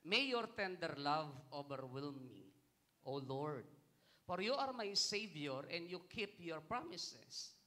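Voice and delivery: slow, emphatic psalm reading; scripture reading. Acted. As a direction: declare the verse slowly and firmly. Reads a psalm aloud. (madiin at mabagal na pagbasa ng salmo)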